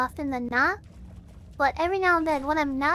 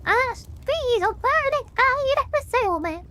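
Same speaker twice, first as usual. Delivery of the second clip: higher, wound-up mock preacher; crazy preacher; 9 semitones higher, 3 dB louder than usual. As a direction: rant like a crazy preacher on a roll. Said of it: "I can do that pretty well when I get wound up".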